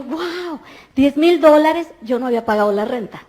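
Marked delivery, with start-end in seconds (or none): 0.0-1.9 amazed. Retold or imitated. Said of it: "Y yo".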